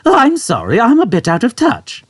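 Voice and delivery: put-on old man. Old man explaining to Arthur, high and unconcerned. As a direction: explain it matter-of-factly.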